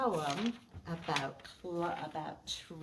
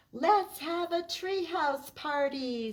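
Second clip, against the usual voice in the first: higher, louder party proposal; higher, louder excited suggestion; Marty excited; 8 semitones higher, 6 dB louder than usual. Acted. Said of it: "said Marty".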